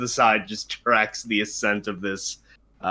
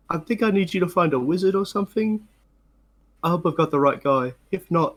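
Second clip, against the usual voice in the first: higher, gentle coaxing voice to a small bird; sweet talk to a bird; 3 semitones higher than usual. Acted. Half-orc sweet-talking the bird he is about to release, coaxing. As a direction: coo at the bird like a big softie.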